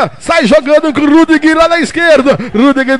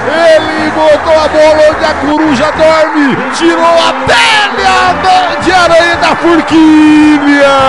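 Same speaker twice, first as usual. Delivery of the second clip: explosive goal commentary. Acted.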